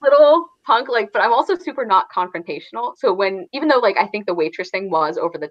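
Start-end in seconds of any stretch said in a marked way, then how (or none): 0.0-0.9 mock disgust breaking into giggles, higher and louder; a hammed-up ew through laughter; laughing mock disgust. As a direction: play grossed out but keep laughing. Imitating own reaction to rude kid.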